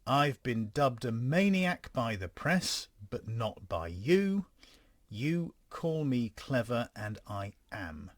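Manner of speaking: slow, deliberate dramatic read; slow letter reading. Acted. Reads out the Ripper letter.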